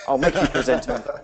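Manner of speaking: hammed-up English accent through a laugh; botched English accent. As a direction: put on a bad English accent. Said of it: "trying to do an English accent".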